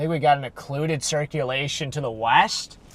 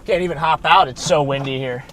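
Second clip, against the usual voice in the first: raised voice against wind; shouting over wind; 3 semitones higher, 7 dB louder than usual. Real, not acted. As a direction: call out over the gusts. Windy, can't get out of car.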